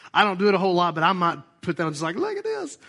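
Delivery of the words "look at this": high-pitched mock boasting; showing off. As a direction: squeal it like a proud show-off. Imagined boasting on Facebook.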